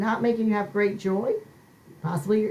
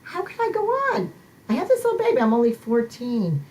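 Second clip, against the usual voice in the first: put-on frightened teen girl. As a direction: plead as a scared pregnant teen. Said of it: "and you're saying".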